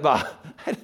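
quick, laughing brush-off; mock impatient dismissal. Preacher imagining an impatient Jesus leaving, fast and laughing. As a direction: rattle it off like someone too busy. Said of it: "Can you imagine, like".

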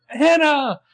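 very high, loud mock scream; hammed-up frantic cry of a name; freaking out. Imitating panicked friends calling Hannah, mock scream. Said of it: "Everyone's freaking out".

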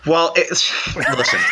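high laughing shout. Real, not acted. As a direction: blurt it out through a laugh. Bursts out laughing mid-reply.

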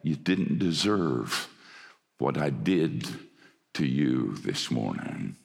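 a father begging his son's pardon, quietly; kneeling father asks his son's forgiveness, softly weeping; weeping apology. Retold or imitated. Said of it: "began to weep and said".

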